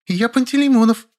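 put-on high child voice, indignant; small boy protesting; offended kid. A narrator's reading. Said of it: "добавил".

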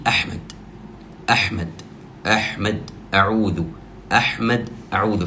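أحمد and أعوذ said with a medium hamza, like calling someone's name; middle-strength hamza in أعوذ, as if calling أحمد; calling-level hamza. Shown as a demonstration. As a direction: demo the correct hamza. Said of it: "بمستوى من ينادي".

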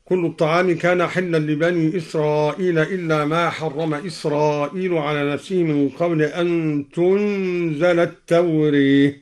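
التوراة recited as "tawrit"; imala on التوراة. Shown as a demonstration. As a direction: lean the last vowel of التوراة toward e. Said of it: "وأمال التوراة".

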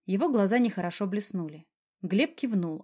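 usual speaking voice

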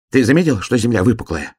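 high, quick little hedgehog voice; a small eager hedgehog, asking. Acted. Hedgehog asks the bear cub while running, high and quick.

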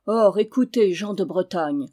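loud opening cry to the crowd; herald's call. Acted. Herald calls the villagers of Brittany to attention, loud. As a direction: proclaim it out to the whole village. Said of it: "dit le héraut".

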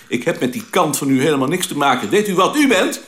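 mild mock outrage, rising on the final question; retold anger. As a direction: imitate an indignant man, building to the challenge. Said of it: "helemaal paars en hij riep".

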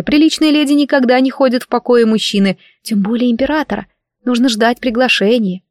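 breathless disbelief at a breach of manners; scandalized young maid. Acted. Maid lectures her lady on visiting men's rooms, scandalized.

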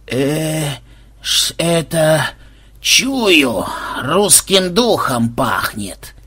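slow reluctant mumble; unenthusiastic mumble. Acted. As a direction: mumble it with zero enthusiasm. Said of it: "без энтузиазма промямлил Кощей".

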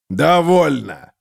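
slow roaring command; roared. Acted. Gotrek roaring at the brawling lords, slow. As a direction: bellow to stop the fight. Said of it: "взревел Готрек".

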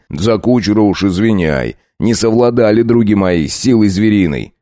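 fake-friendly bandit chief making demands; a hint of mock-gracious robber; bandit leader.

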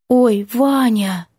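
put-on high, slow, drawn-out coy girl's voice; silly coy girl. Girl fluttering her lashes at Vanya, coy. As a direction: flutter it out sweetly. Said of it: "превратившись в глупого щелкунчика".

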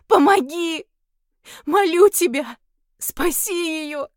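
high, loud begging in tears, last words slow; on her knees, pleading through tears; tearful begging. Acted. Heroine begs the demon on her knees, tearful pleading. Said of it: "не в силах остановить слёзы".

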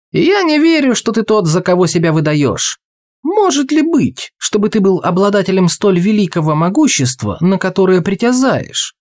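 put-on a keen young man pleading his wish; eager youth. Youth challenges the genie.

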